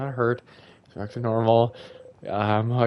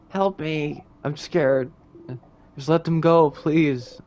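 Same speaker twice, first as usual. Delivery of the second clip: higher, louder frightened plea; pleading child Bonnie; 5 semitones higher, 6 dB louder, much slower than usual. Acted. Bonnie begs the king to let go, high and frightened. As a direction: beg for help like a terrified kid.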